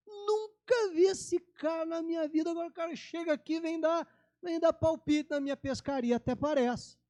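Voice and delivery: high, put-upon scoffing fisherman; indignant scoff. Retold or imitated. Fisherman scoffing at the stranger on the shore, indignant. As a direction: act offended by the stranger's advice.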